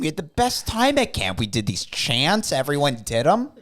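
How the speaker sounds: high mock old grandpa. Voicing grandpa defending Nazi past.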